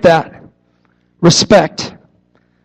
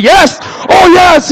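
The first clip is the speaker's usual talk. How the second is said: put-on kids cheering; 8 semitones higher, much slower than usual. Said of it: "Anybody want candy?".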